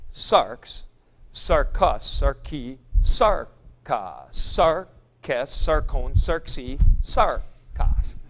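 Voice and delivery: each form said slowly, the accent shifting from stem to ending and back; a teacher's measured drill through the forms; reciting the forms. Shown as a demonstration. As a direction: recite it like a drill, marking where the accent falls. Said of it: "I will illustrate the positioning of the accent".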